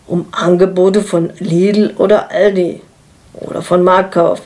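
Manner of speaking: pointed emphasis on each shop in "Lidl oder Aldi". A narrator's reading. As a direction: lightly stress the store names LIDL, ALDI and MARKTKAUF. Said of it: "er sagt mit Betonung".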